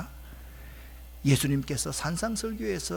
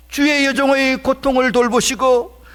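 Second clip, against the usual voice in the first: loud, high cry to God; raised, fervent pulpit plea; impassioned pleading prayer; 8 semitones higher, 13 dB louder than usual. Acted. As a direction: preach the quoted prayer at full force. Cries out the woman's prayer.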